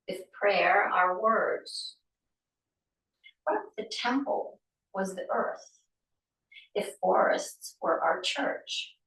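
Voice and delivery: poem reading. Acted. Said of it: "And it goes".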